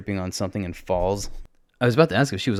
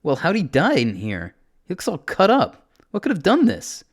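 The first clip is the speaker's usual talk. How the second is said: high, louder, alarmed questions; alarmed questioning; 10 semitones higher, 5 dB louder than usual. Acted. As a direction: demand answers in mild alarm. Alarmed at finding dead man.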